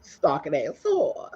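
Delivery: slow, drawn-out mocking insult; slow taunt. Insulting the stalker in chat with a slow mocking drawl. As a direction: stretch it out to taunt.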